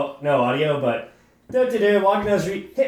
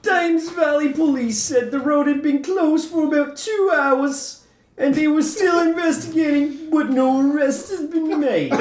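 higher, shouty mock British accent; hooligan accent; 6 semitones higher than usual. Finishing the news story for friends, in a mock hooligan accent. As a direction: belt it out in a hammed-up cockney voice. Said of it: "rate his accent".

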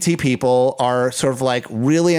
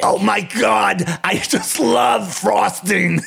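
higher, slow, shouted celebrity gush; Harvey Fierstein impression; 6 semitones higher, much slower than usual. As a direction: belt it out like a diva devouring cake. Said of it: "Do your Harvey Firestein".

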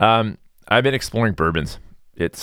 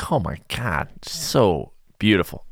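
awed; slower than usual. Retold or imitated. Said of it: "I'm like".

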